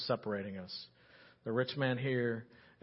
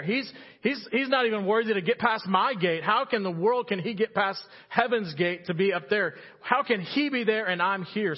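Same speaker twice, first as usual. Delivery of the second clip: mildly hammed-up indignation, pitched higher; indignant; 5 semitones higher, 4 dB louder than usual. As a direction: play the offended rich man, voice raised in disbelief. Acting the rich man's indignation.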